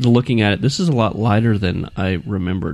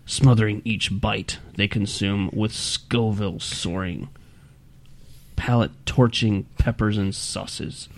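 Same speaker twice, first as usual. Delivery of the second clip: scary reading voice. Shown as a demonstration. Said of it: "something scarier".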